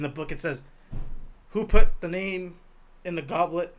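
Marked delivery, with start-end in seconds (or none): 1.5-3.7 asked calmly, slow and even; calm question. Retold or imitated. Quoting the book's Dumbledore, a slow calm question. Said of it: "he asks calmly".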